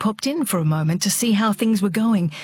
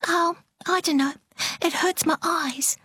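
careless; 10 semitones higher than usual. A narrator's reading. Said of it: "she answered carelessly".

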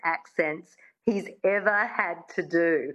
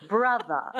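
transatlantic 'brother', no final R; transatlantic accent. Shown as a demonstration. Coach modelling for a student, transatlantic accent. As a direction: end 'brother' on a schwa, transatlantic style. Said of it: "you drop the R and you make it a schwa".

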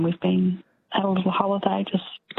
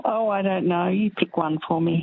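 usual speaking voice

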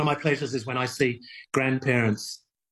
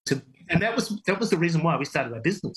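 halting and higher, overcome with feeling; real emotion; 5 semitones higher than usual. Real, not acted. Kite maker recalling why they started the business, emotional. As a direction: push on through a surge of emotion. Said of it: "I'm feeling emotional about that".

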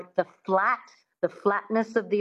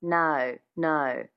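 Australian "no" with a little schwa before the O; 3 semitones lower, much slower than usual. Shown as a demonstration. Dialect coach demonstrating the Australian no, in an Australian accent. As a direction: slide into the O of "no" from a short uh sound, Australian style. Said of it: "Adding that little schwa at the beginning of the O".

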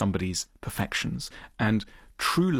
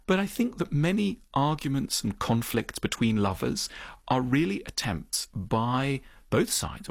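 usual speaking voice

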